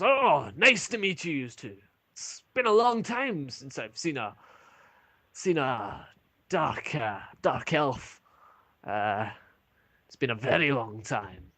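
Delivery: lightly voiced dwarf, high and pleased at first; friendly dwarf barkeep. Dwarf barkeep welcomes the dark elf, lightly voiced and pleased. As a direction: greet them warmly, as if he has not seen an elf in years. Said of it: "He goes".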